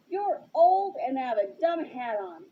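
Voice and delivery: put-on a spoiled kid's petty jab; temper tantrum. Superintendent mocking old Jammer, childish tantrum. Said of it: "sounded like a child having a temper tantrum".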